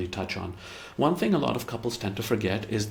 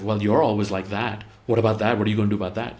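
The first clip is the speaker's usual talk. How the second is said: imitating a partner hitting back, a bit louder; mock aggressive comeback; 3 dB louder, faster than usual. Partner retorting in a mildly mock aggressive tone. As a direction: push back like you're picking a fight. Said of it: "they become equally aggressive".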